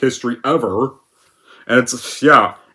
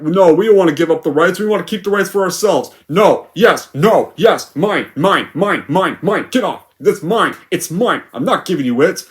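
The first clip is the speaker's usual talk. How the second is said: put-on higher, petty "mine, mine" childish whine; toddler-like Fox; 3 semitones higher than usual. Fox refusing to give up the rights, toddler tantrum. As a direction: grab it like a kid with a toy. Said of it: "like a toddler fighting for his doll".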